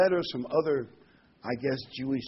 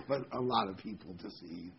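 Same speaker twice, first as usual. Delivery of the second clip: chuckling through the words; a real laugh breaking into the line; 3 semitones lower, 4 dB quieter than usual. Real, not acted. Laughs at own remark.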